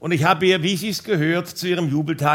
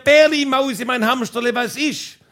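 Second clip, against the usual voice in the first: high mock call back from the garden; half-sung call of pet names; lightly hammed-up shout that trails off; wife calling back; 5 semitones higher than usual. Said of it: "Und sie hat zurückgeschrien".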